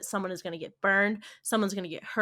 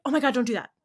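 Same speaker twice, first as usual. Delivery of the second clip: higher-pitched mock alarm; mildly panicked parental warning, retold; imitating anxious mom; 4 semitones higher, 4 dB louder, much faster than usual. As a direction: imitate a worried mother's quick warning. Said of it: "my mom was very like".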